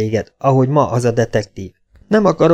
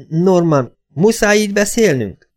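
high-pitched plaintive appeal; high, reproachful question; pleading mother; 7 semitones higher than usual. A narrator's reading. Mother pleads, voiced in story.

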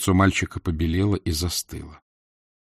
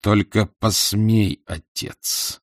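through gritted teeth; much slower than usual. Acted. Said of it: "сквозь зубы процедил".

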